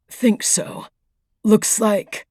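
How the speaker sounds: breathless, pausing for air; injured and short of breath. Acted. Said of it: "he stopped to take a few breaths".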